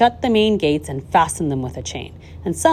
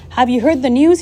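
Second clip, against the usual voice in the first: high, loud announcement; excited cry; 8 semitones higher, 7 dB louder than usual. A narrator's reading. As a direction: burst in with big news. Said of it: "he cried".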